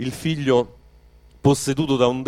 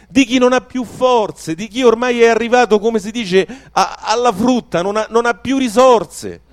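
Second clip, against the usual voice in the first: louder and higher, building with rising fervour; fervent preaching; 5 semitones higher, 4 dB louder than usual. Acted. Preacher to the congregation, fervent rising proclamation. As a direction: preach it out with mounting passion.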